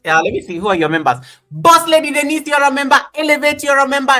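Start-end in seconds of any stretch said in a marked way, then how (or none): 1.5-4.1 high, loud hype announcing each name; excited shout-outs. Real, not acted. Host hyping up each channel member, excited shout-outs.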